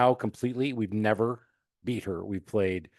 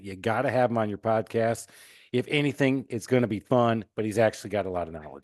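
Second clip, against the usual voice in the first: fake Southern accent. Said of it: "Don't put on your fake Southern accent".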